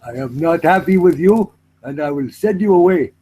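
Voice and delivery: politely menacing Indian accent; mildly indignant Indian-accented warning; threat in Indian accent. Shown as a demonstration. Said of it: "give me a threat in your Indian accent".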